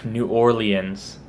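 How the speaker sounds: "New Orleans" as "new OR-lee-unz". Shown as a demonstration. Showing viewers the rarer one, "New Orleans" as "or-lee-unz". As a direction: say "New Orleans" slowly in four syllables. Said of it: "not as common one".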